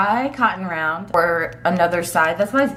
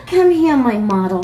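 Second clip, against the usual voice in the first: puppy voice; 5 semitones higher, 6 dB louder than usual. Acted. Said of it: "my puppy voice is annoying".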